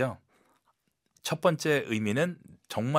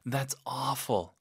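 That's awful said softer and slow, with real concern; soft sympathy; 2 semitones higher, 4 dB quieter, much slower than usual. Shown as a demonstration. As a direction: soothe someone with it gently. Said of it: "아주 부드럽게".

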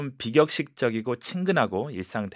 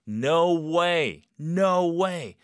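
excited; 5 semitones higher, much slower than usual. Shown as a demonstration. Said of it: "느낌 그대로 표현하시면".

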